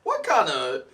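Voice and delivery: laughing. Real, not acted. Amazed at the wine's strength.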